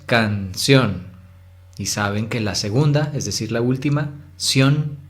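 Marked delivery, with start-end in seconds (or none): 0.1-1.1 "canción" in two separate syllables; split into syllables. Shown as a demonstration. Teacher showing pupils the two syllables, split apart. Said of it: "se separa en dos sílabas". 4.4-5.0 "ción" said firmly as the strong syllable; stressed syllable. Shown as a demonstration. Teacher showing which syllable is strongest, stressed. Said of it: "es la más fuerte".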